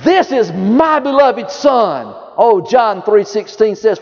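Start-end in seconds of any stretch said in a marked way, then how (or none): 0.0-2.2 "This is my beloved Son" drawn out slowly, each word weighed; slow, solemn proclamation of the Father; voice of God the Father. Retold or imitated. Preacher voicing God's words to the congregation, slow and solemn. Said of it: "God the Father said".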